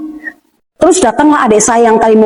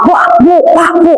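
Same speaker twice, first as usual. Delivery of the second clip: mildly acted higher-pitched cries; retold cries; 7 semitones higher than usual. Daughter being hit by her sibling, retold higher-pitched cries. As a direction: imitate crying out, without full force. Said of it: "Saya teriak-teriak".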